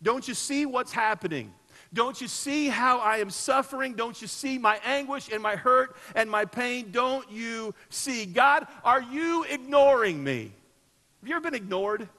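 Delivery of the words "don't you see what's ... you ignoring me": slow, rising anguished plea to God; pleading. Acted. David pleading with God, slow and anguished. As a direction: press each question harder. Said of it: "In other words, he's saying".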